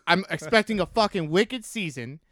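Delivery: slow Boston sports-fan grumble; Boston accent. Shown as a demonstration. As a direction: lean into an aggrieved Boston accent. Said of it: "Let me hear your Boston accent".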